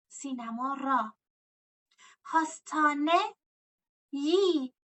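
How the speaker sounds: سینما را said slowly; teacher models the full form; slow model answer. Shown as a demonstration. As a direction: lay out each part for the class. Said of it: "slow model answer".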